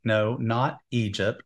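usual speaking voice

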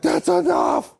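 high shrill yell; shout. Retold or imitated. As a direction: scream it out. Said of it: "women are screaming like".

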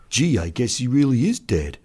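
a touch of mournful respect; grieving, respectful. Acted. Enlisted man mourning the doctor, mildly sorrowful. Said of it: "grieved one of his enlisted men in a low, respectful voice".

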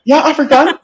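high, loud surprised Jamaican cop; playing the officer, half laughing; police officer voice. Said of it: "They say".

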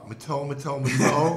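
hockey goal call. Retold or imitated.

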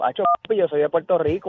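quoted in a Puerto Rican lilt; lightly imitated Puerto Rican tone; like a famous salsa singer, very Boricua. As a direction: repeat it with a proudly Boricua accent. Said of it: "con un tono bien boricua".

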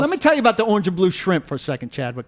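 lightly voiced Southern coach, drawled and folksy; Steve Spurrier impression. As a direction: play the old ball coach, a little hammed-up. S1 voicing Spurrier.

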